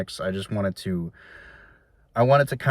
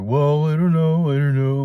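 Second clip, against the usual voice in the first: mock dithering dad, higher and louder; lightly hammed-up dad dodging the question; imitating dad; 5 semitones higher, 6 dB louder than usual. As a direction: play the dad who won't commit, pitched up. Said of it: "my dad's like".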